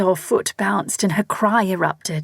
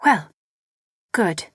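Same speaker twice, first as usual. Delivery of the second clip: tetchy; 2 semitones higher than usual. A narrator's reading.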